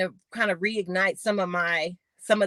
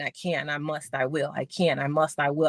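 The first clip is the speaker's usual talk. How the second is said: low, steady self-affirmation; repeated mantra; 5 semitones lower, 3 dB quieter than usual. Retold or imitated. Athlete reading her sign to herself daily, low steady mantra. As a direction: recite it evenly, pitched down, like a mantra. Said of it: "I just said it over and over again".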